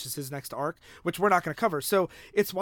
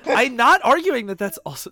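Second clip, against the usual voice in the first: laughing; 6 semitones higher, 7 dB louder than usual. Real, not acted. Defending himself in friendly argument.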